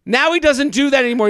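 mock the family years later, half-laughing; imagined family gossip. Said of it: "I'm, like, imagining".

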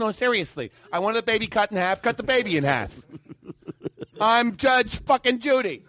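high, insistent Judge Judy; lightly voiced stern judge. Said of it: "And she goes".

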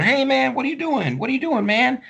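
high, loud challenge; confronting young man. Retold or imitated. Young man in pink shirt confronting the window breaker, high challenge. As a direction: call him out, high and urgent.

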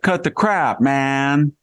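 put-on high, slow, drawn-out Valley Girl voice; Valley Girl impression. Imitating the Chinese consul for the host, high hammed-up Valley Girl voice. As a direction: pitch way up and stretch out the okay like a Valley Girl. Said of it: "want to hear you imitate her".

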